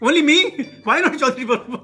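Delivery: put-on laughing while repeating the child's protest. Preacher repeating the boy's line to the audience, amused and laughing. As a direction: retell the boy's complaint through chuckles.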